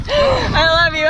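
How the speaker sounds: choked up with joy; tearful. Real, not acted. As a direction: voice close to tears. Emotional after the jump.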